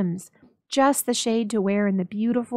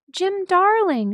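higher, louder, slow and pleading; cried out; 10 semitones higher, 5 dB louder, slower than usual. A narrator's reading. Della rushing to Jim, crying out his name. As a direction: call his name with a rush of feeling. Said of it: "she cried".

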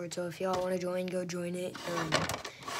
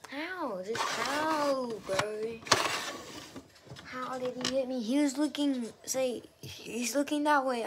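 high, loud, outraged rant; ranting at an unfair kill; raging gamer; 4 semitones higher, 5 dB louder than usual. Real, not acted. Ranting about getting shot.

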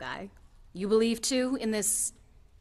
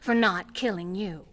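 angry refusal; 6 dB louder than usual. Acted. Refusing the stranger a seat.

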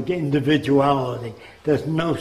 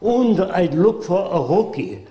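put-on German accent. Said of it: "He said".

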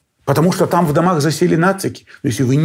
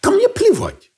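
dismissive. Real, not acted. Dismissive reply to interviewer.

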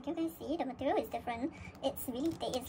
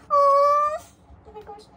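high, near-tearful gushing; a loud gasp sinking into a touched whimper; emotional, touched; 14 semitones higher, 11 dB louder than usual. Real, not acted. Fan reading the message card, emotional and touched. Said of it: "this is so emotional to me".

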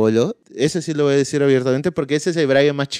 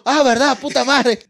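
mock realization; 11 semitones higher than usual.

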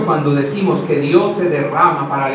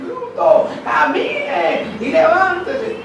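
much higher, shouted scolding; angry mother; 12 semitones higher, much slower than usual. Retold or imitated. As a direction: yell at the child like an impatient mother. Harsh mother yelling at toddler.

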